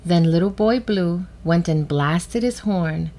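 put-on measured storybook reading for children; gentle read-aloud with clear pauses; story narration. A narrator's reading. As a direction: read it like a picture book, with pauses. Reads a picture book.

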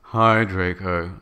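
slow, glum greeting; depressed voice. Acted. Ebony greeting Draco by his car, depressed. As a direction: drag it out gloomily. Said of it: "I said in a depressed voice".

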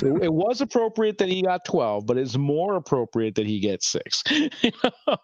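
high, sing-song mock official voice, pitched well up; mocking Blizzard spokesman. Host mocks Blizzard's ruling in a high, put-on official voice. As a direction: parody the company's smug excuse. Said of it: "they're saying here that it was appropriate".

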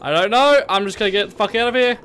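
panicked shouting, fading. Real, not acted. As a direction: start yelling, then trail off. Running away, calming down.

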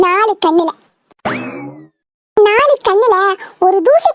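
hammed-up earnest prayer to God; mock prayer. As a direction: plead with God as a devout son. Son prays aloud to God.

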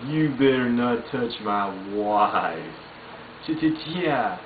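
slow, lightly voiced Dale threat; a hint of paranoid Dale; Dale Gribble impression. Dale warns about his wife, lightly voiced. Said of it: "do a Dale Gribble".

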